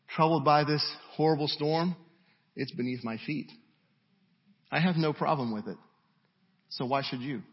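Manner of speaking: unhurried, untroubled voice of Jesus; measured, with pauses between phrases; calm reassurance. Acted. Voicing Jesus unbothered by storm.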